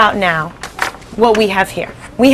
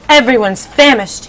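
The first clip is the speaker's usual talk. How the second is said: slow, higher centipede complaint; 4 semitones higher, 3 dB louder than usual. Acted. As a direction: drag out the hunger like the centipede. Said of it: "he said".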